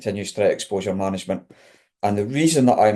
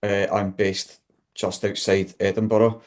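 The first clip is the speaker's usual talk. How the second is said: broad Scottish accent, quick and chatty. Real, not acted. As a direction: talk in your own broad Scottish accent. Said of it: "I have got a very strong Scottish accent".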